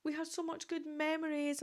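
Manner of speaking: a hammed-up sigh of longing; mock wistful pining. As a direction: play up the pining, half-mocking yourself. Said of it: "I'm like".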